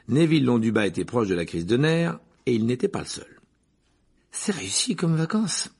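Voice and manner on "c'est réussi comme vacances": high-pitched, mildly roared sarcasm; roaring complaint. A narrator's reading. Simus complaining about holiday homework, mild roar. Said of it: "rugit Simus Finnegan".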